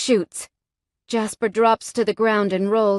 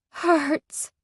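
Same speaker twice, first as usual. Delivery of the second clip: wailing; 7 semitones higher than usual. A narrator's reading. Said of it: "I wail loudly".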